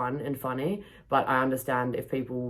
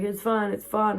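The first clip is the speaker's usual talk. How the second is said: mock skipper; 6 semitones higher than usual. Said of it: "started speaking in Croatian".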